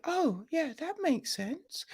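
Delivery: high, breezy mock agreement; airy mock agreement. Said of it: "Grace is just like".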